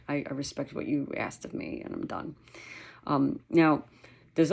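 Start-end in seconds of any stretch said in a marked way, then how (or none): 0.1-2.4 submissive fading voice. Retold or imitated. Voicing the submissive dog.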